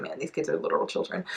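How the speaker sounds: hushed, breathy aside to herself; under the breath, disbelieving; whispered aside. Retold or imitated.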